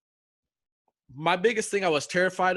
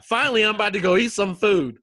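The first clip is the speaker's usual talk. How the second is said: loud, higher, celebrating; imagined elation; 4 semitones higher, 7 dB louder than usual. Retold or imitated. Imagining he's about to go eat, loud elation. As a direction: crow it like a man finally freed.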